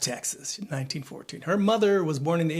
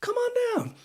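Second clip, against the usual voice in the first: whispered game show call. Acted. Mock invitation to company owners.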